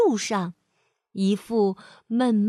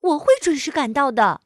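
confident; 4 semitones higher, 6 dB louder than usual. Acted. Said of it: "淘淘充满信心地说".

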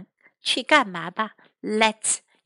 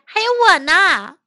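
storybook shout, higher and louder; raised, lively exclamation in Mandarin; Andy; 8 semitones higher, 8 dB louder than usual. Acted. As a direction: call out to be included. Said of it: "安迪叫了起来".

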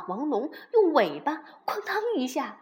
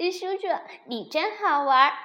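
high, loud, giggly little dinosaur; tickled baby dinosaur, high and loud; amused child; 4 semitones higher, 7 dB louder than usual. A narrator's reading. Baby dinosaur enjoying uncle's joke, amused.

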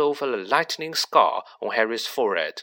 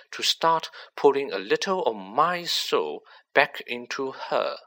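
Riddle, cold and smug; 3 semitones higher than usual. Acted. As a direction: let a cold confidence creep in under a light voice. Riddle's voice in the story.

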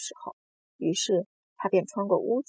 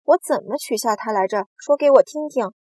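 loud challenge, climbing higher; hysterical shout; 3 semitones higher, 9 dB louder than usual. A narrator's reading. Centipede demanding how he teased the earthworm, shouting. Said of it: "指着蚯蚓喊道".

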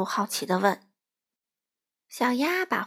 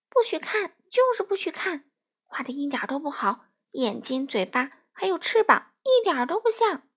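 put-on childish furious outburst; shouting angrily; 6 semitones higher than usual. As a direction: yell at the duck not to look. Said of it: "他对小鸭大声嚷道".

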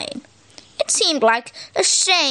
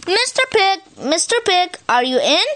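calling out; 3 semitones higher than usual. Retold or imitated. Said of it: "I called".

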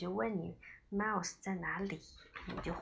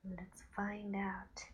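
slow hushed whisper; reading to a toddler; 6 dB quieter, much slower than usual. Acted. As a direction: whisper it slowly, full of suspense. Mother reading to child.

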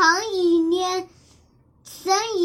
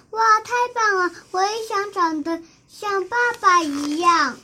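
higher, fast and bright wonder; excited admiration; 3 semitones higher than usual. Acted. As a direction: gasp in delight at dad. Child admires father's skills. (兴奋地惊叹)

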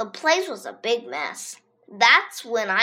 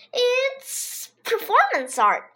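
slow, raised, grand claim; bluffing; 12 semitones higher, slower than usual. A narrator's reading. AJ bluffs to the teachers, slow and grand. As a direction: announce it slowly, bluffing.

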